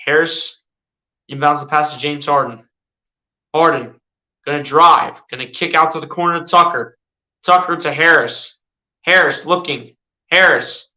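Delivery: mock sportscaster calling the action; casual play-by-play of a video game; live play-by-play. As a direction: call each move as it happens, like a TV announcer.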